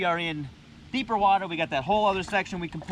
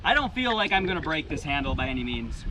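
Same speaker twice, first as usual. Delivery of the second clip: breathless after screwing in anchors; out of breath; 5 semitones lower than usual. Real, not acted. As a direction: talk while catching your breath. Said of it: "I'm out of breath now".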